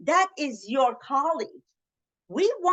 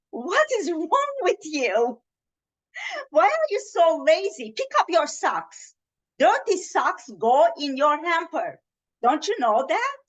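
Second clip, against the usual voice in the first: scolding, accusing parent voice, raised and sharp; blaming non-NVC way; 3 semitones higher than usual. Shown as a demonstration. Fed-up mother scolding her son about socks, accusing. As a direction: nag him like a fed-up parent. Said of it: "non-N V C way".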